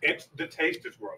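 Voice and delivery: quiet, through a mouthful; chewing. Real, not acted. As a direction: mouth full of spicy chip. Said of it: "You're chewing for more than five seconds".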